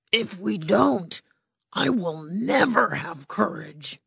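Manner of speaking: lightly voiced timid lion; a hint of a nervous big cat; cowardly lion. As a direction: play the lion, a bit unsure. Lion speaks.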